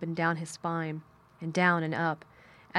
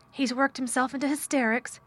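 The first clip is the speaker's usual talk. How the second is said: higher, anxious rush of words; urgent, hurried; 6 semitones higher than usual. A narrator's reading. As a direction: say it like an urgent report. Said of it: "she said in a great hurry".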